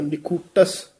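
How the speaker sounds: ਨਿਖੂਟਸ with a tightened, firm ਟ; tightened pronunciation. Shown as a demonstration. Teacher correcting the reciter, ਨਿਖੂਟਸ said tightly. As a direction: press the ਟ in ਨਿਖੂਟਸ a little. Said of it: "ਥੋੜ੍ਹਾ ਜਿਹਾ ਕਸ ਕੇ ਉਚਾਰਨ".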